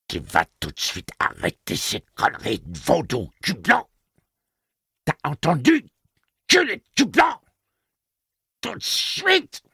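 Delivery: very high, loud mocking shriek; screaming taunts. A narrator's reading. Detta screams at Roland to stop the voodoo. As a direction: shriek the insults, stretching the end.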